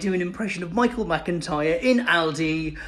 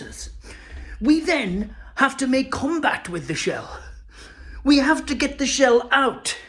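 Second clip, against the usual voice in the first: Michael McIntyre. Acted. Comic telling an audience about eggshell in breakfast, lightly imitated stand-up exasperation. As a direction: build an everyday gripe into exasperated stand-up. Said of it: "elaborated on it like Michael McIntyre would".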